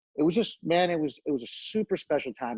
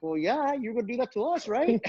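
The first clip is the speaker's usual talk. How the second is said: defensive comeback; 10 semitones higher than usual. Retold or imitated. Retold comeback to an angry Angle.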